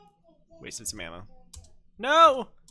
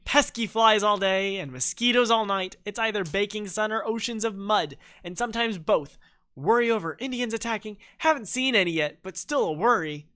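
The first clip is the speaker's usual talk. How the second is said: grumbling traveller; 7 semitones higher, 5 dB louder than usual. Acted. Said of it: "party leader heading east tells you".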